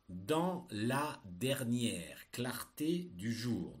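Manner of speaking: slow, word by word dictation; dictating. Shown as a demonstration. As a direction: read it out for pupils to write. Teacher dictating a text.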